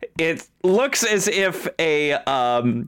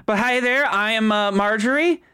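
Marjorie voice; 5 semitones higher than usual. Acted. Marjorie introduces herself.

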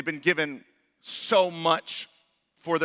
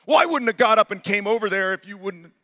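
mock blaming snap; 4 semitones higher, 5 dB louder than usual. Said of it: "it's their fault".

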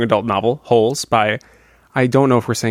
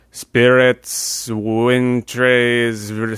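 fortune teller voice; much slower than usual. Retold or imitated. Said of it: "She goes".

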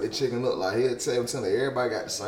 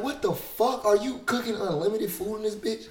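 mock exasperated voice; 12 semitones higher than usual. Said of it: "I'm like".

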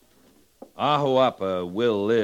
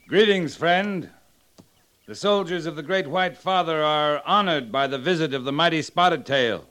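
formal greeting; 3 semitones higher than usual. Acted. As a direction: greet the chief with stately courtesy. Officer formally greets visiting chief.

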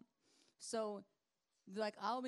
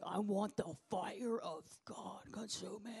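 eager seeker; slower than usual. Retold or imitated. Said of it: "And he's like".

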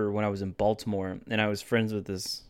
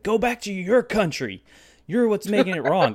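retold taunt, pitched up; mock hostile jeer; 8 semitones higher, 4 dB louder than usual. Imitates racist stranger yelling at friend.

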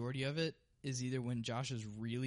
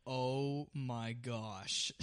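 mock exhausted sigh; 3 dB louder, much slower than usual. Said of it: "you'll be like".

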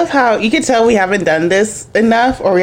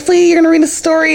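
put-on higher, quick kid-like question; kid's eager question; 7 semitones higher, faster than usual. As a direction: lightly mimic a child asking fast. Voicing excited kids in retold bedtime.

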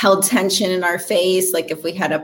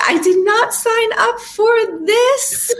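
high-pitched disbelieving cry; shocked disbelief. Retold or imitated. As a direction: squeal it out in disbelief. Retelling shock at roommate's job.

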